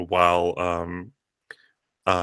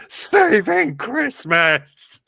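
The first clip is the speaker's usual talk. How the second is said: heroic shout; 13 semitones higher, much slower than usual. Acted. Player's hero answers the kneeling giant mid-punch, slow heroic shout. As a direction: stretch it into a big triumphant yell. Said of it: "and shout".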